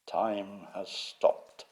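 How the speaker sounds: slow, drawn-out announcement voice; lightly imitated narrator, each word stretched out; Magnus Magnusson. Imitating the time-car's recorded voice, slow and drawn out. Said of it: "Magnussen's voice said".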